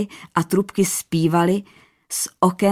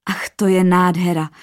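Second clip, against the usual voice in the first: a touch louder, thrilled at the gift; queen gasping with joy; lightly voiced wonder; delighted; 4 dB louder than usual. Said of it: "volala nadšeně".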